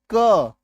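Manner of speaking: क alone, loud with its vowel held; isolated letter sound. Shown as a demonstration. Teacher spelling a word sound by sound, loud isolated क. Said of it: "के लिए के लिखा".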